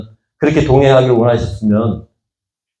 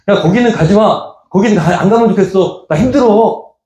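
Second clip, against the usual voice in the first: pleading Jesus; 8 semitones higher than usual. Retold or imitated. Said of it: "따라와도 예수님이".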